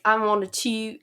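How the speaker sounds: accidental mock-British accent; lightly put-on British voice. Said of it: "why am I speaking in a British accent".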